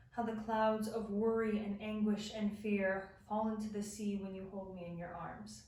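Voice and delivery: poet reading her untitled love poem, tender and hushed. Acted. Reads her emotional love poem.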